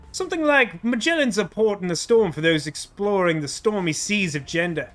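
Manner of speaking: put-on lightly slipping into an Australian accent; near-Australian accent. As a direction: read it with a hint of Australian. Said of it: "that almost came out Australian".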